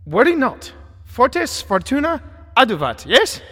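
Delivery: cheerfully bolster a scared companion; reassuring Wellington. Acted. Wellington reassures frightened Miss Braun.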